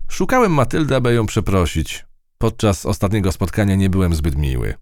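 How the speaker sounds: high, earnest bug voice; a proud little creature making amends; high earnest insect apologizing; eager harvestman. A narrator's reading. Harvestman character speaks.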